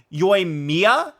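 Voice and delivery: Yoimiya with the stress on MIYA; yoy-MEE-ya, leaning on the MEE; mispronunciation demo. Shown as a demonstration. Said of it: "because you're saying Mia".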